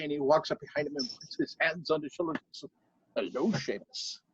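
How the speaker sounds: sneak up on him. Acted. King sneaks up quietly.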